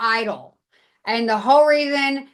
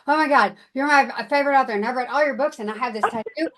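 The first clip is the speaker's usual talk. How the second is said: starstruck; much faster than usual. Retold or imitated. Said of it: "if I ever met one of my favorite".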